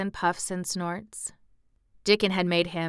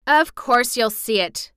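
loud, raised-pitch indignant retort; indignant snap; 5 semitones higher, 7 dB louder than usual. A narrator's reading. Mary scolds hysterical Colin, indignant snap. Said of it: "snapped Mary indignantly".

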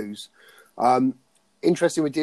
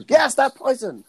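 much higher, louder film quote; quoted character line; 12 semitones higher, 6 dB louder than usual. Retold or imitated. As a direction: hit it like the cartoon villain. Quoting a favourite film line.

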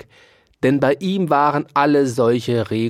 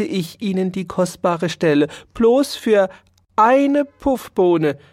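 high, squeaky and pleading; little mouse voice, coaxing; wheedling mouse; 6 semitones higher than usual. Acted. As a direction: lay it on thick like a poor hungry mouse. Mouse swears it's true.

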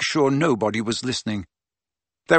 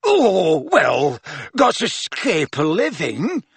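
lightly voiced shifty crook, slow; a hint of a shady, wheedling thief; Mundungus voice; 5 semitones higher, slower than usual. A narrator's reading.

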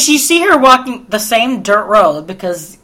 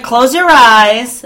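slow con man; 3 semitones higher, 6 dB louder, much slower than usual. Retold or imitated. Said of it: "So he's like".

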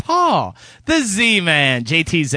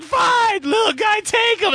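exasperated shout; slower than usual. Retold or imitated. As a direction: give in with a fed-up shout. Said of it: "I'm like".

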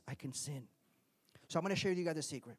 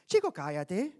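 put-on Cuban Spanish accent; 5 dB louder than usual. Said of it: "part of my attempt to be Cuban".

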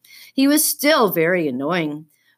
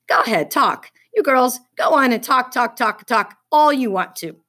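sarcastic taunting; 6 semitones higher, 4 dB louder than usual. A narrator's reading. Taunting the chatting girls.

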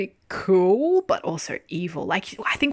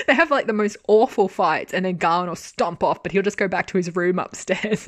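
ordinary talk, nothing marked

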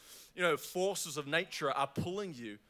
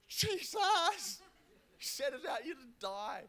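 doomsayer; 8 semitones higher than usual. Retold or imitated. Panicked disciples in storm.

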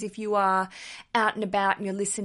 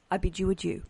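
silly posh farewell; 2 semitones lower than usual. Acted. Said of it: "enough silly voices".

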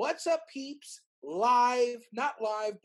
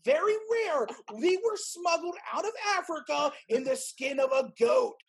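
infomercial host; 3 semitones higher than usual. Pretend. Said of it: "And then we're like".

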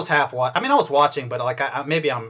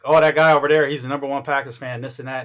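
put-on Southern US accent; 5 dB louder than usual. Meat counter guy talking Packers, mock Southern accent. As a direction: imitate a Southern grocery clerk. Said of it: "I don't know why I'm doing that accent".

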